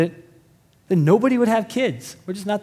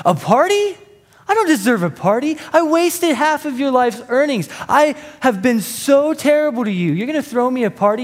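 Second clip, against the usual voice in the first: son's disbelief, voiced much higher; stunned son; 6 semitones higher than usual. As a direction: play the son who can't believe it.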